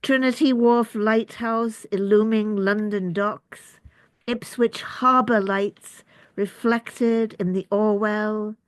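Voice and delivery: measured recital, pausing after each phrase; deliberate, evenly paced poem reading; poetry reading. Acted. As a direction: read it as verse, image by image. Reads own poem aloud.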